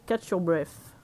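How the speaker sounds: slow title read with a light English accent. Shown as a demonstration. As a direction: say "Catch Your Breath" in a light English accent, slowly. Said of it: "Mon accent anglais".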